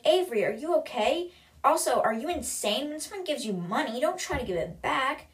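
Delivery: high-pitched, acted agitated questioning; bursting out. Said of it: "And then Libby bursts out".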